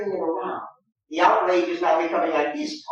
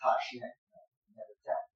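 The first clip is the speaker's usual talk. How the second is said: soft, broken up with small pauses between Tush and never; measured pauses; 4 semitones lower, 11 dB quieter, faster than usual. Shown as a demonstration. Rodrigo brushing off Iago, quiet and broken up with pauses. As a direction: give each word its own beat, quietly. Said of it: "And then".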